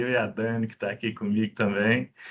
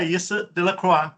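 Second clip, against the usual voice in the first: lightly put-on French accent on the name; 5 semitones higher than usual. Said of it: "tô tentando falar com sotaque francês".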